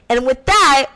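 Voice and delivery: ordinary talk, nothing marked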